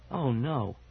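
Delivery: panicked wail climbing with each no. A narrator's reading. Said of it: "she wailed".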